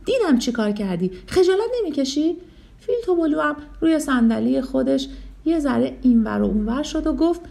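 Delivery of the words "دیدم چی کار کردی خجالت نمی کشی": angry shout. Acted. Teacher scolding Tupolu for tripping Fili, angry shout. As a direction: call out the bully in front of the class. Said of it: "با عصبانیت فریاد زد".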